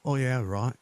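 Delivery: put-on botched English accent, drifting Australian; mimicked English accent. Mocking back the friend's remark, mimicked English accent. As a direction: parrot your friend in a poor English accent. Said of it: "I didn't say it like an Australian".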